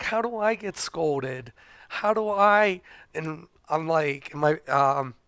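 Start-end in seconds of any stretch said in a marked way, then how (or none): 0.0-2.8 raised pitch, louder, baffled and defensive; mock indignant protest. Husband protesting to wife, raised and incredulous. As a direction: play the wronged husband, voice climbing. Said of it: "and I get scolded".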